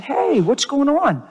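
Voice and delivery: retold easygoing phone greeting; friendly greeting. Preacher acting out his phone reply to the supervisor, friendly.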